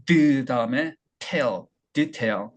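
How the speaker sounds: "드", then "tail", joined into "detail"; weak first vowel. Shown as a demonstration. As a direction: barely voice the first syllable of "detail", hit tail. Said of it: "여기도 모음이 없어요". ("detail"의 첫 모음 없이 드, tail)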